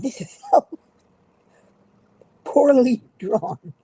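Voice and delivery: laughing high and loud. Real, not acted. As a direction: giggle through the words. Mocking a poorly drawn picture.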